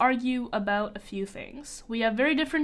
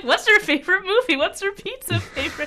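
mocking high voice; 9 semitones higher, 6 dB louder than usual. Mocking last week's light questions.

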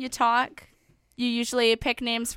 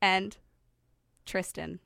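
syllable by syllable; 4 semitones lower, slower than usual. Shown as a demonstration. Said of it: "That's five".

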